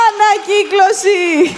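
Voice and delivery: drawn-out comic yell; punchy shout. Acted. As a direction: bellow it out slowly for the laugh. Punchline about recycled photos.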